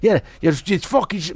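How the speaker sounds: high put-on old Irish man; imitating neighbor. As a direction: grab him and rant like the neighbor. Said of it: "grabs me, he's like".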